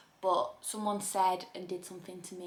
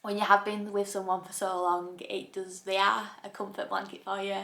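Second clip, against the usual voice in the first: crying, worn out. Real, not acted. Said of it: "I can't stop crying".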